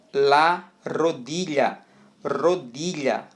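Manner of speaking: "la rodilla" slowly, with a strong initial R; strong R demo. Shown as a demonstration. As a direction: stretch out "rodilla", leaning on the R. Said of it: "Olha o R com som forte". ("la rodilla" devagar, com R forte)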